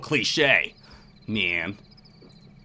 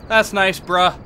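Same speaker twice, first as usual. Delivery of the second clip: that's nice bruh said louder and brighter; louder repeat; 3 semitones higher, 4 dB louder, slower than usual. Real, not acted. Gamer repeating the jab at the ghost, louder. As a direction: punch it up the second time.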